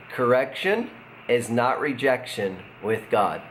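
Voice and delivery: slow, leading a repeat-after-me. Shown as a demonstration. Pastor asking viewers to repeat with him, slow and deliberate. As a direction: pause between phrases so others can join. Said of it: "Why don't you just repeat it with me?".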